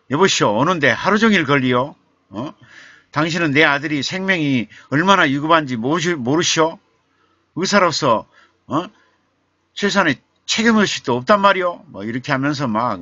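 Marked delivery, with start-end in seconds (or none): 0.1-11.8 loud, high, fast furious yelling; enraged father berating a late doctor; angry shouting father. Retold or imitated. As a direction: tear into the doctor at full volume. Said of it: "버럭 소리를 지르면서".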